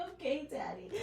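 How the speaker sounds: meek giving in. Retold or imitated. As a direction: melt and give in, hushed. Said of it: "And you're like".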